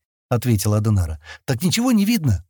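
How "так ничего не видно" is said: insistent. A narrator's reading. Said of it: "настойчиво спросила она".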